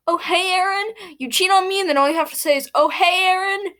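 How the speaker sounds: mild mock anger; hurt accusation. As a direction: throw her words back at her. Aaron confronts cheating girlfriend.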